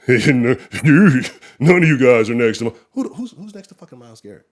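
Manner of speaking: incredulous, words breaking up with laughter; laughing disbelief. Real, not acted. Host scoffing at a claim about Myles Garrett, laughing disbelief. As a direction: talk through a laugh.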